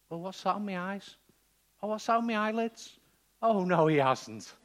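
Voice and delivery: high puzzled voice turning to loud dismay; hammed-up dawning horror; horrified blind man. Blind man feeling mud on the eyelids, acted loud horror. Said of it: "you're sitting there blank thinking".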